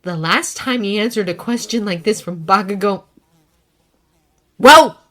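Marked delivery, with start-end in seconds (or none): 4.6-5.0 impatient. A narrator's reading. Bakugo impatient.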